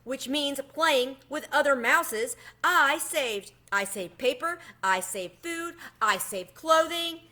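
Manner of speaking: a mouse pitying his lost youth, high and slow; high and pitiful. A narrator's reading. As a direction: whine it out slowly and high. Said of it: "His voice became high and pitiful again".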